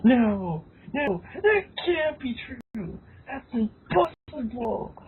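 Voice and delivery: slow, drawn-out disbelief; mock dramatic denial. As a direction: ham up the shock.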